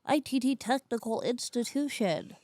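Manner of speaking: put-on character voice; Sue Dillon impression. Teaching cohost to talk like Sue Dillon, put-on voice. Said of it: "teach Chelsea how to talk like that".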